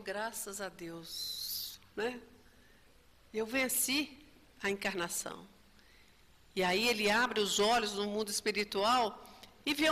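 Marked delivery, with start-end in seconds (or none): 0.0-5.5 soft slow sigh of relief; relieved sigh. Retold or imitated. Dying man thanks God, soft relieved sigh. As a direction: breathe it out softly and slowly, relieved. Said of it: "Ele deu o suspiro e falou".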